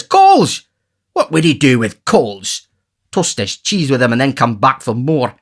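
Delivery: lightly aped beggar, slowed; mimicking pauper. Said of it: "he says".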